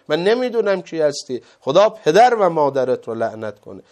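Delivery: retold indignant curse, forceful and emphatic; zealous defence. Old man curses the man insulting his Imam, zealous indignation.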